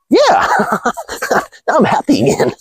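very high squeaky yeah; mock girly glee. Mocking a girl cheered by a hug, high squeal. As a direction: flip to giddy joy.

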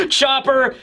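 acted laughing fit into a high call; Sanji. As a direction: laugh first, then call out through it. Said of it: "who is laughing".

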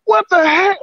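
high, strained near-sobbing voice; pushing words out through real distress; cracked, raspy upset voice; emotional, voice cracking. Real, not acted. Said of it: "I'm just so emotional right now".

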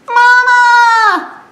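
high wailing call of mama; piglet crying for mama. Acted. Lost piglet calling for mama, high wail. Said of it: "said Piglet".

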